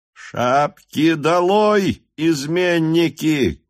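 high, loud, very slow command; officer ordering the crowd to bare heads, loud and slow; full-blooded shout. A narrator's reading. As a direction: bellow each word out slowly. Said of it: "крикнул полнокровный голос Ростова".

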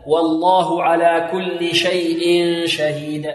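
والله على كل شيء شهيد slowly recited, light waw, heavy lam; Quranic recitation. Shown as a demonstration. Teacher reciting the verse as a model for students, slow. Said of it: "وهنا نرقق الواو".

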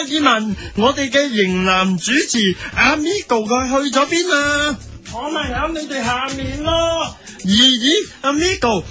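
usual speaking voice

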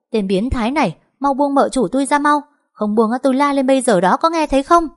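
high, loud frantic cries for help; a wife shrieking as a stranger grabs her; screaming to be let go. Acted. Wife yells at the man hugging her, loud and high. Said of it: "la hét".

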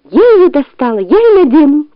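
high, insistent fox cry; high-voiced protest. A narrator's reading. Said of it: "закричала лиса".

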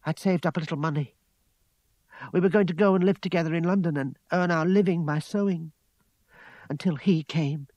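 put-on upset young woman's lament; tearful. A narrator's reading. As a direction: pour out the grief, settling towards the end. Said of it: "Wiping her eyes".

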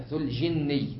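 جني the wrong way, slowly; wrong pronunciation. Shown as a demonstration. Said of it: "وهذا خطأ من ناحيتين".

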